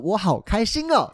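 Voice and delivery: put-on high, slow, sing-song drunk glee; drunk giddy joy. Drunk on the roadside, gushing to friends, high giddy voice. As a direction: float the words up like a happy drunk.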